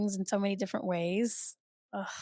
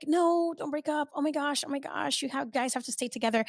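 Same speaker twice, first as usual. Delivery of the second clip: retold child's plea; 5 semitones higher than usual. Acts out herself as pleading child.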